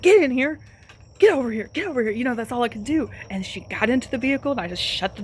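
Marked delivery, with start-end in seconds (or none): 0.0-2.1 calling the dog. Retold or imitated. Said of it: "and I opened up my door, and I was like".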